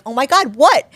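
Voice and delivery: imitating the agent thrilled at a book deal; excited agent. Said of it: "And she's like".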